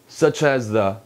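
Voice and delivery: "such as the" run together; gliding, unbroken "such as the"; smooth liaison. Shown as a demonstration. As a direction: link "such as the" as one word. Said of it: "연음해서 매끄럽게 해주시고".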